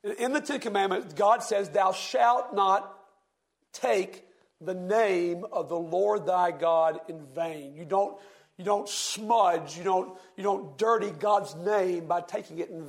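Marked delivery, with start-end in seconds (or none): 1.7-7.8 slow, solemn King James reading; scripture reading. Acted. Preacher reading scripture to the class, slow and solemn. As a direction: read the old verse slowly, with weight. Quotes commandment.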